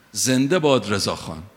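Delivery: mock shout. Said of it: "بلند داد زد که".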